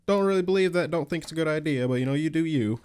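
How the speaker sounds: lightly mimicked easygoing reply; imitating his reply. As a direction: mimic him brushing it off. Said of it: "And you're like".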